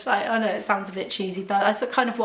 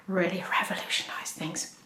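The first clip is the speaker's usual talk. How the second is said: whispered aside; 2 semitones lower, 7 dB quieter than usual. Real, not acted. Confiding a private health detail.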